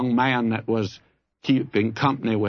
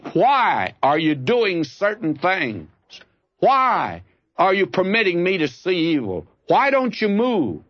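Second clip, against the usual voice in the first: prophet's plea; 6 semitones higher than usual. Retold or imitated. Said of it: "and he says".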